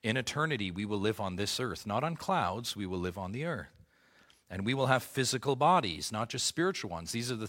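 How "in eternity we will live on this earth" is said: ordinary delivery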